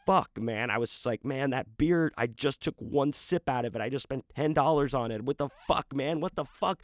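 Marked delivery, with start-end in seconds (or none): 0.1-0.7 slow, drawn-out disbelieving outrage; retold anger, each word stretched out; livid. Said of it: "livid, probably a lot more angry". 1.2-6.8 higher, indignant retold rant; worked-up griping, pitch climbing; pissed off. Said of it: "I was so fucking pissed".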